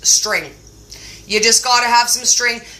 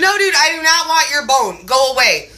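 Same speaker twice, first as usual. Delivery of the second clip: mock exasperation; 3 semitones higher than usual. Owner refuses her dog's bone, mock exasperated. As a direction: turn the dog down in mock exasperation.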